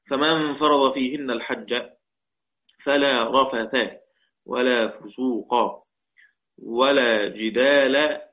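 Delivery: slow, measured tilawa with drawn-out words; Quran recitation. Shown as a demonstration. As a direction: recite it slowly, word by word, as in tajwid. Teacher recites a Quran verse. (تلاوة قرآنية بطيئة مرتلة)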